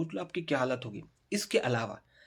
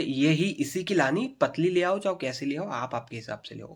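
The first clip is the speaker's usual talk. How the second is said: lightly voiced strict teacher; 3 semitones higher than usual. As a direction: order the kids to fetch the stick. Teacher voiced giving orders.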